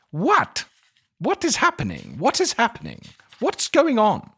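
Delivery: high, loud, stunned what; rising, baffled alarm at the twist; shocked disbelief. Real, not acted. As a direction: blurt it out like the plot just floored you. Reacting to a shocking plot turn.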